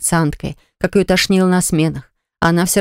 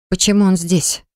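stern. A narrator's reading. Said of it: "строго спросила она".

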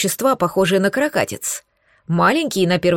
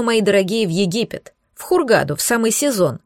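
ordinary delivery

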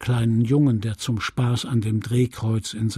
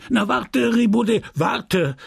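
angry shout; 9 semitones higher than usual. A narrator's reading. Priest shouting angrily at an unruly child, angry shout. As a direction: yell at the boy across the church. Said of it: "schrie der Geistliche mit zorniger Stimme".

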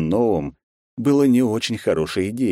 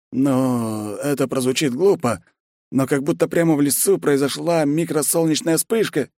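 lightly voiced nervous general; general's voice; 9 semitones higher than usual. General embarrassed explanation.

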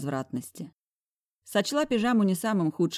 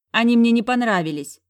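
high, much louder snap; snapping bark; 6 semitones higher, 9 dB louder than usual. Acted. Heroine yells after departing boss, loud. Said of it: "рявкнула я вслед".

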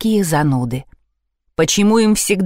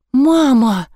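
plain reading voice

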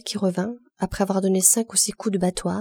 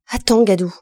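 threatening shout; 7 dB louder than usual. Acted. Virginie threatens revenge.

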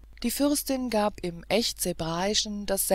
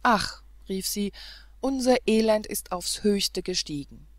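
tearful lament; 5 dB louder than usual. Acted. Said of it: "mit weinenden Augen".

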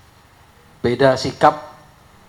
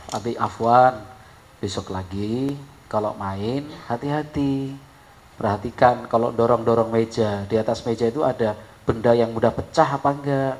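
gentle father; 2 semitones lower than usual. Retold or imitated. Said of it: "Tapi kalau bapak yang bijak".

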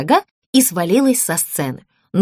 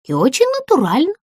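giggling; 4 semitones higher, faster than usual. Acted. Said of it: "хихикнула Сафи".

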